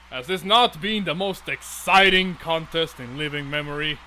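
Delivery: lightly booming, grand royal address; booming king voice. Acted. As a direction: proclaim it like a proud king to the crowd. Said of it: "this kind of booming, uh, voice".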